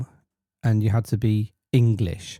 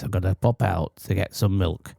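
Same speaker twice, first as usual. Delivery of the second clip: a light Northern English accent, lower and softer; lightly put-on Northern English accent; northern working-class accent; 4 semitones lower, 4 dB quieter than usual. Shown as a demonstration. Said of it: "You talk like this".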